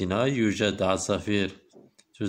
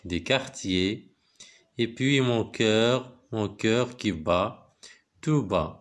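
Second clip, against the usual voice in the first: slow, measured poem reading; slow classroom recitation with pauses between phrases; much slower than usual. Acted. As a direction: recite line by line, drawing out the words. Reads the poem aloud to pupils.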